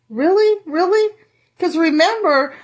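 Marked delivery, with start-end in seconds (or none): 0.1-1.1 Really? thrown back in disbelief; incredulous. Real, not acted. Preacher mocking disbelief.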